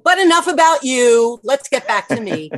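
mock self-centred. Joking self-centred turn.

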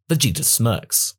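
ordinary delivery, nothing marked

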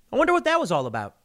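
airy puzzled self-talk, a bit quick; mock naive musing. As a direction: think it aloud like a clueless homeowner. Naive inner thought after cop.

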